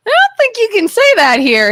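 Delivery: high, laughing; laughing warning. Retold or imitated. Telling a coworker her word is offensive, laughing. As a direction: laugh as you warn her. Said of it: "I was like".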